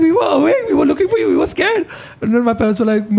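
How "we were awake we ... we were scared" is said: mock upset. Kid scolding parents, retold.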